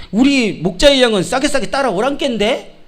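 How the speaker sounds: puzzled sheep lightly quoting Jeolla dialect; a touch of Jeolla accent, questioning. Acted. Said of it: "저 전라도 양들이". (살짝 전라도 사투리로 갸웃하듯)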